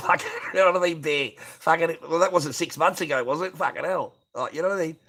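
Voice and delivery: ribbing a viewer; laughing mockery. Real, not acted. Laughing at apocalypse claim.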